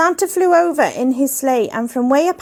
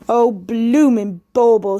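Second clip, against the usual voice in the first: mild shout. A narrator's reading. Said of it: "shouted Ed".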